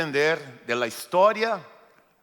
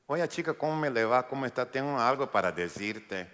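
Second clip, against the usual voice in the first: casual angel. Pretend. Angel greeting María, mock casual chat. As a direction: greet her like a buddy, not a messenger. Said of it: "no creo en un ángel con una voz así".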